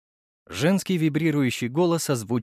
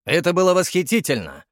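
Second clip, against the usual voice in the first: delighted; 5 semitones higher, 4 dB louder than usual. A narrator's reading. Curator thrilled by fight.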